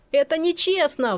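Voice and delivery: put-on a boy squeals his protest mid-giggle; squealing with laughter. A narrator's reading. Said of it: "взвизгнул Есеня, давясь смехом".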